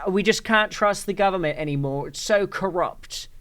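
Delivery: hammed-up aggrieved parody; mock whining. Streamer mimicking them facing prison, mock whining.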